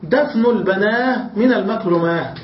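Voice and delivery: البناه and المكرماه said ending in h; pausal ha. Retold or imitated. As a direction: end البناه and المكرماه on h, not t. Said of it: "وأصله دفن البنات".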